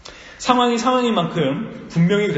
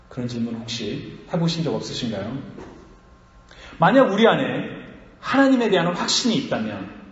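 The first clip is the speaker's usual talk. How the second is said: ordinary talk, nothing marked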